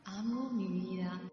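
voz lejana y muy tenue; eco de fondo. Acted. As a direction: repite la afirmación como un eco distante. Eco de la afirmación. (eco suave y lejano)

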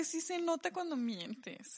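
a slow whispered confidence; whispered aside. Real, not acted. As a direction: lean in and whisper it like a secret. Confiding aside about lying.

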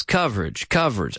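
COVERAGE as CUV-rij, low and falling; two-syllable pronunciation. Shown as a demonstration. Teacher drilling the word for learners, two syllables. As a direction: repeat coverage without its middle vowel. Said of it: "Two syllables".

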